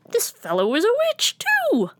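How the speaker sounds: very high, gleeful witchy cat; high witch cat cry. Acted. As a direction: squeal it out like a delighted witch cat. Witch cat greets Muley.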